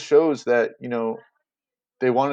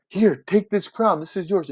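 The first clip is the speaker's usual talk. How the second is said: offering the crown; 8 semitones higher than usual. Retold or imitated. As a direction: hold out the crown with a grand flourish. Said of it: "Antony goes again".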